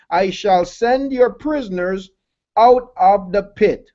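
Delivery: measured, solemn reading of the verse; solemn pulpit scripture reading. Acted. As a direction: read it out like holy writ.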